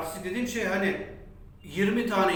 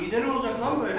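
pained cry; 4 semitones higher than usual. Real, not acted. Spicy pain, crying out.

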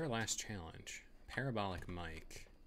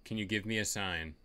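calling out. Real, not acted. Calling out to a ghost.

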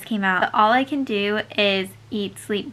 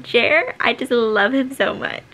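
excited squeal; 3 semitones higher, 4 dB louder than usual. Real, not acted. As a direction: squeal his name with delight. Fangirling over the character.

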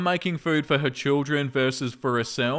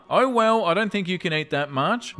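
teasing grandma voice; 3 semitones higher than usual. Retold or imitated. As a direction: goad the child like a sly grandma. Voicing grandma in story.

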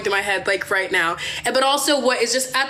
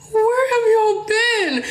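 high, drawn-out mock wail; bawling; 10 semitones higher, much slower than usual. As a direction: wail it like you can barely get it out. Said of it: "I can't even get the words out".

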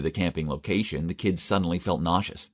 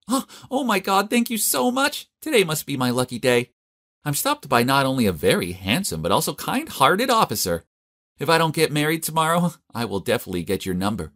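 high-pitched, gushing flirty thanks; delighted coquettish squeal, easing down at the end; flirtatious gushing; 7 semitones higher than usual. A narrator's reading. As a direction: gush in a high voice, flattering the officer. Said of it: "was she actually flirting with the cop?".

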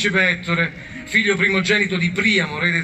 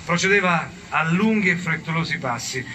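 measured storyteller with weighty pauses; unhurried, solemn storytelling; mock-epic narration. A narrator's reading. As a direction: narrate like a grave epic tale. Solemn story narration in a comic retelling.

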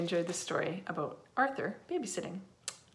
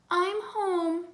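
high, singing homecoming call; pitched-up mom's greeting; mother calling out; 10 semitones higher, 4 dB louder than usual. A narrator's reading. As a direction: call cheerily into the house. Mother calls on arriving.

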